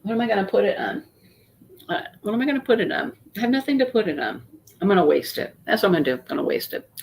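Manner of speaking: talking around a cough drop; mouth full. Real, not acted. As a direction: cough drop in her cheek. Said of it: "I have a cough drop in my mouth".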